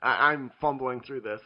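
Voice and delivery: talking with the hiccups; hiccuping between words. Real, not acted. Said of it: "I have the hiccups".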